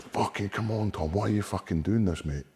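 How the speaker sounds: pep talk yell. Retold or imitated. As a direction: shout him into belief. Urging Tom on backstage.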